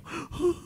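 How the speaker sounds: high, soft imitated sob; mock sob. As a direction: imitate a tearful gasp. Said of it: "nangis depan saya". (tiruan isak tangis)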